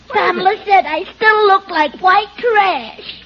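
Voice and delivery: put-on tearful little-girl wail; hammed-up childish crying complaint; upset child. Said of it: "what's wrong".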